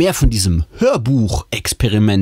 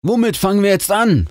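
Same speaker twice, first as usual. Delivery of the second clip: hoch und tatkräftig gefragt; motiviert; 12 semitones higher than usual. A narrator's reading. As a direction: voller Tatendrang mit angehobener Stimme fragen. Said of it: "fragt mein Vater motiviert". (motivierter Vater, hohe Tonlage)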